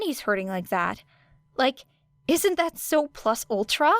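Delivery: butter him up with fake sincerity; mock-innocent plea; innocent pleading. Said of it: "Era pleaded".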